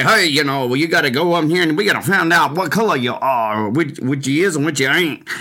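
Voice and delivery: sarcastic Mississippi segregationist accent, barely voiced; Bull Connor voice. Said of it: "my Bull Connor, Mississippi racist voice".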